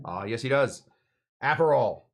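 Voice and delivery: lightly imitated teacher's accent, long "Ah"; Bob Heaps accent. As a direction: answer yourself in a history teacher's accent. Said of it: "His accent is horrible".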